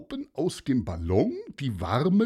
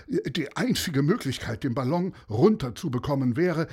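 a hint of a worried man, a bit higher; the pilot explains to the bird, mildly anxious; lightly voiced desperate pilot; 5 semitones higher than usual. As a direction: explain the plan slightly urgently.

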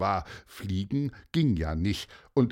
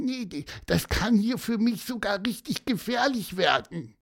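squeaky cartoon voice; 8 semitones higher than usual. Gonzo the bird speaks.

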